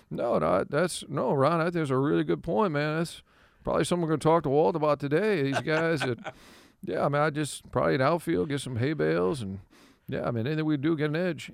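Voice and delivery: lightly voiced Tony, soft and earnest; a hint of Tony calmly defending the idea; imitating Tony. Tony gently defends the caller's point, soft and earnest. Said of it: "And Tony's like".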